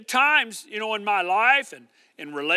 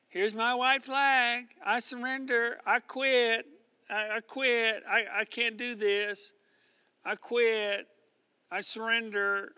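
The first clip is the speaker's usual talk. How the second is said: a hint of a weary quitter, softer and slower; defeated quitter; 5 dB quieter than usual. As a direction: voice someone giving up, drained, lightly played. Imagined quitter giving up.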